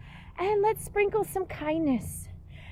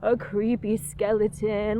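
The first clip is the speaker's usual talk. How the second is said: creepy skeleton voice; 7 semitones lower than usual. Pretend. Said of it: "let's make a skeleton".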